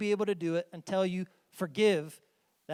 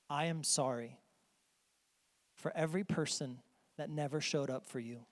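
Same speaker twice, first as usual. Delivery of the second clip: sincere apology; 2 semitones lower, 6 dB quieter than usual. Pretend. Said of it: "I wanna say I'm sorry on behalf of some people".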